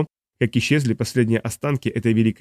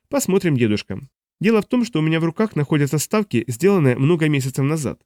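put-on smug young man; 2 semitones higher than usual. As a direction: play the cocky grandson. Dun reveals his bets.

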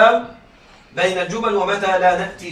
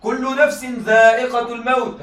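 slow, measured recitation of the verse; Quran recitation. Shown as a demonstration. Teacher reciting a verse to students, slow and measured. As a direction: recite it slowly and reverently. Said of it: "هذه الثانية".

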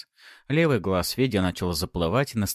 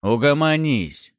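громкий властный приказ, медленно; осадить приятеля одним словом; тяжёлым басом приказать; 7 semitones higher, 6 dB louder, slower than usual. A narrator's reading. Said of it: "тяжёлым басом приказал". (второй бандит грубо приказывает первому остановиться)

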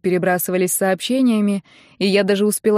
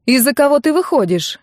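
higher and louder, stress on кого; loud exclamation; 6 semitones higher, 4 dB louder than usual. A narrator's reading. Narrator interrupting her friend, loudly demanding the groom's name. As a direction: cut in, demanding. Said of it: "громко воскликнула я".

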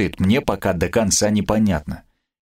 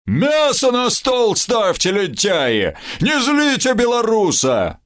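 bellowing order at lazy servants; shouting; 12 semitones higher, slower than usual. Acted. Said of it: "с порога заорал внутрь".

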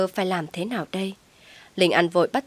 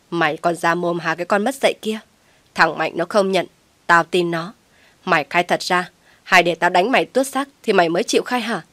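louder stern threats; angry scolding; 3 dB louder than usual. Acted. Mother threatens to beat her lying daughter, angry.

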